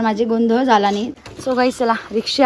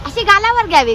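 लाडिक उंच सूर; 8 semitones higher than usual. Real, not acted. बाळाला गालावर पप्पी दाखवते.

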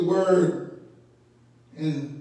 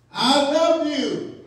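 high, drawn-out call from a crowd; mock scream; 9 semitones higher, 3 dB louder, much slower than usual. Supporter screaming out to President Obama, mock scream. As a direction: mimic a fan yelling out, stretching the words. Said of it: "someone would scream out".

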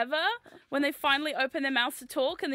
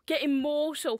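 rough attempt at Geordie accent; 2 semitones higher, 3 dB louder, slower than usual. Shown as a demonstration. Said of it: "They used to have, like, a fun phrase".

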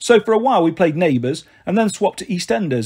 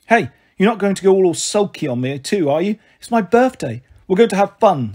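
cajole a sulky child, lightly acted; lively Marigold, coaxing; 3 semitones higher than usual. Narrator voices Marigold coaxing the child.

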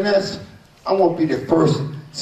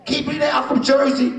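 excited shout; 4 semitones higher than usual. Real, not acted. Hyping crowd at press conference.

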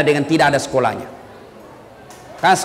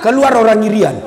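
ordinary talk, nothing marked

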